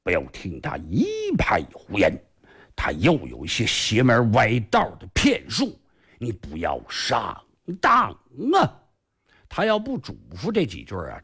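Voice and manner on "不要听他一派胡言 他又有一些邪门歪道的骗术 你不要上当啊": a lower, earnest elder-brother call; urgent warning call. Acted. Elder brother calling a warning to the hero, lowered and earnest. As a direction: warn your sworn brother not to fall for it. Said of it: "大喊一声".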